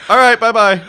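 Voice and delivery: light, high, sing-song goodbye; a chirpy phone sign-off, lightly done; sing-song bye-bye. Retold or imitated. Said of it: "To grown men, I say".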